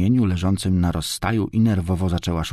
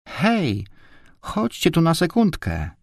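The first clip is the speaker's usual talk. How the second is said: wołanie z daleka; 10 semitones higher than usual. A narrator's reading. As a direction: call the others over in a high voice. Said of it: "wykrzyknęła Barbarka z głębi korytarza". (wysokie, dziewczęce wołanie)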